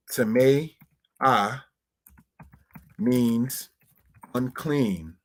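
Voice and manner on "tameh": tameh said slightly raised and clear; Hebrew word demo. Shown as a demonstration. Teacher repeats tameh for the congregation, clear and raised. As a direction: pitch tameh up a touch as you name it. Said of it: "brothers and sisters".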